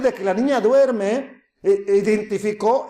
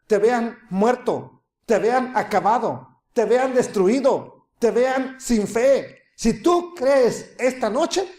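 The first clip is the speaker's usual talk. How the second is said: slow emphatic preaching; slower than usual. Real, not acted. Sermon climax, slowed emphatic appeal.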